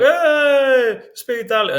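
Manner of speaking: a hammed-up Italian demanding you speak Italian; Italian local shouting at a tourist, mock exasperation. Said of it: "they'll be like".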